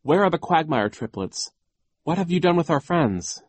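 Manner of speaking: put-on indignant girl's challenge; demanding confrontation. A narrator's reading. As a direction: demand answers from the villain. Violet confronts the villain.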